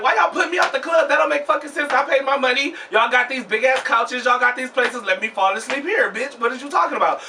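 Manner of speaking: high, indignant complaint at the bouncers; mock-outraged, pitch jumping up; outraged rant. Complaining to the club staff about being put out, indignant and high.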